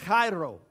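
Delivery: chairo with a throaty phlegmy start; Greek pronunciation. Shown as a demonstration. Pastor demonstrates the Greek word chairo with throaty phlegm. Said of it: "You gotta get a little bit of that phlegm going on".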